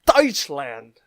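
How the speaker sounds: "Deutschland" said loudly and slowly, as /tɔɪtʃlænd/. Shown as a demonstration. The vlogger asking viewers to repeat "Deutschland". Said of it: "say with me".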